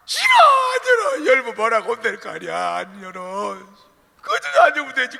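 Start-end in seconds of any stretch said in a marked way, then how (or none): 0.1-1.3 high shouted stubborn no; loud, defiant child; child yelling refusal. Acted. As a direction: yell it back like a sulking kid. Child refusing mother at door.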